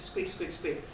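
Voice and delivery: hushed, unvoiced little squeaks; soft mouse squeaks. Explaining the mouse's scurry to the audience, in soft squeaks.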